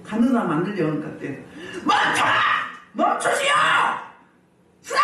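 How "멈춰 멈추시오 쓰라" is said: high demonstration yell at full force; explosive, urgent command cries; forceful shout. Shown as a demonstration. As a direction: shout hard enough to halt someone. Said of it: "세게 해야지".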